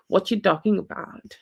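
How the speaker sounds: put-on amateur Texas accent, cocky man's retort; attempted Texas accent. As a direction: have a try at sassy Texas talk. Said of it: "I'm very bad with this accent".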